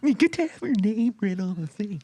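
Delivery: high cartoonish announcer voice; vintage cartoon voice. Shown as a demonstration. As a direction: do it like an old cartoon. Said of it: "You want me to do it?".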